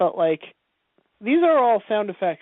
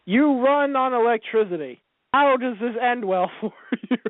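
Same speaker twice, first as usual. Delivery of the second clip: higher, mock-incredulous scolding; mock exasperation; 5 semitones higher than usual. Viewer scolding R two for jumping into the ocean, mock exasperated. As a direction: plead with a reckless droid, half laughing.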